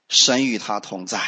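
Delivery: usual speaking voice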